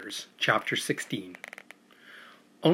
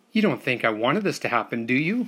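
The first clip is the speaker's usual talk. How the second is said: pleading cry. Acted. Boy pleads with the silent captive, rising to a cry. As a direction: beg him to believe you. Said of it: "I cried".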